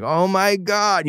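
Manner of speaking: high, drawn-out mock amazement; hammed-up delighted "oh my God"; excited recognition. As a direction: act out thrilled disbelief, stretching the words. Acted delight at meeting fellow local.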